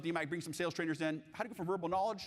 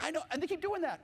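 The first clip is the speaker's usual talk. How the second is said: coach; 12 semitones higher than usual. Retold or imitated. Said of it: "she's like".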